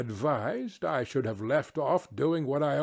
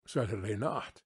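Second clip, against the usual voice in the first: lower gruff Meletus reply; 5 semitones lower, 6 dB quieter than usual. Acted. Meletus answers Socrates' question.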